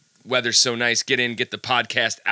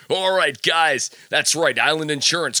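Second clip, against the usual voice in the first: hammed-up radio announcer, pitched higher; 4 semitones higher than usual. Shown as a demonstration. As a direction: sell it like a cheesy DJ. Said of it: "I'm gonna do it in my radio voice".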